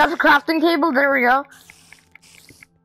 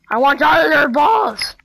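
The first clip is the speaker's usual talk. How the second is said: louder, greedy yell; demanding shout; 3 semitones higher, 4 dB louder than usual. Real, not acted. Fighting the slime for drops, a loud demanding yell. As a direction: bark it at the slime.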